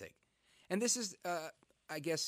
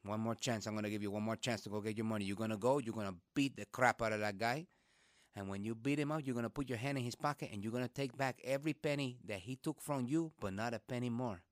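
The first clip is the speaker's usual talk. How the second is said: stern dad; 4 semitones lower than usual. Retold or imitated. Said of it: "And he said".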